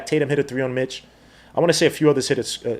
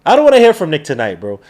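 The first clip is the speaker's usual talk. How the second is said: "wanna" pushed, the whole line louder; louder repeat; 5 dB louder than usual. Real, not acted. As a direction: say it again and hit it harder.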